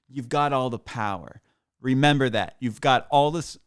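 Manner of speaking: hammed-up earnest plea read aloud; put-on voice reading a text. Reading his friend's post-election text in a mock earnest voice. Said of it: "let me get my voice on".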